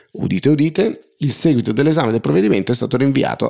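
booming high proclamation; town crier. Pretend. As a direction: announce it like a herald. Mock proclamation of news. (banditore che proclama)

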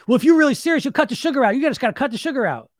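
high-pitched mock scolding; high, insistent mimicry of preachy advice; lecturing advice-giver. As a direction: lecture them like a know-it-all. Scolding advice-giver acted in quote.

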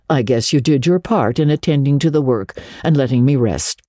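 a hint of a stern spinster; dry Marilla.

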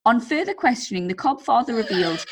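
lively, measured story narration; story read-aloud. A narrator's reading. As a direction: read the anecdote out to entertain. Reads out a listener's story.

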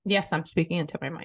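sounds like a tin can; distant, tinny room sound; tinny mic. Real, not acted. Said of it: "sounds like you're in a tin can".

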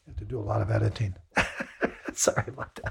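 very soft, voice giving out; overcome, with a small breathy laugh; real emotional choke-up. Real, not acted. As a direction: apologise through being overcome, barely voiced. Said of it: "I get very emotional".

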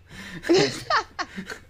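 real helpless laugh; burst of laughter. Real, not acted. Reader breaking up while reading, real laughter. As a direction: crack up mid-story. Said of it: "I'm sorry".

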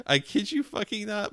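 normal talking voice

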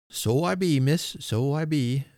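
put-on high, agreeable country old man; Father Christmas. A narrator's reading. Old man agreeing with little miss, high-pitched. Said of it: "said he in a high-pitched voice".

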